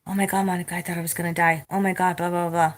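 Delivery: a hint of whiny coworker; mock coworker. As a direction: lightly parody her drama. Mocking coworker again, softer.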